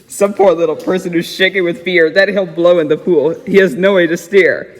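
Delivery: put-on reading a rhyming story aloud to a child. A narrator's reading. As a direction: read it like a bedtime book. Reads Seuss story aloud.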